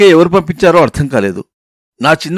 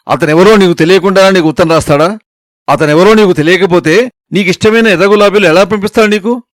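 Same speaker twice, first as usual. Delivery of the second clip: mother scolding; 2 semitones higher than usual. Acted. Mother scolds her daughter over a love letter, angry. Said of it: "అమ్మ తిట్లదండకం అందుకుంది".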